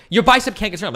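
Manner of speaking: a snotty contrarian brushing it off; mock opponent. Streamer imitating the contrarian opponent, high mocking voice. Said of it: "It's like".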